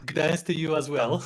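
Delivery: laughing through a joke; chuckling while saying it. Real, not acted. Joking mispronunciation of Gdansk.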